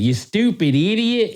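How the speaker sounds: high, drawn-out British insult; exaggerated British put-down; mock British accent. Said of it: "in his British accent".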